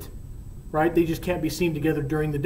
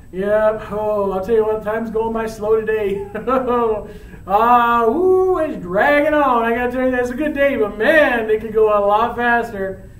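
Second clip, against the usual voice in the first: giddy impatience; 4 semitones higher, 4 dB louder than usual. Acted. Romeo impatient for nightfall, still giddy.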